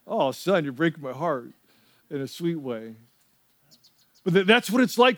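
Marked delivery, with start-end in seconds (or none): 0.1-2.9 soft, low, tender retold reply; touched father. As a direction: let it sink softly, a father quietly moved. Touched father answers his little son.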